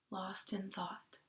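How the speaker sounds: slow hushed whisper. A narrator's reading. Teacher reading the thoughtful moment, whispered. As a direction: let it fade into a whisper.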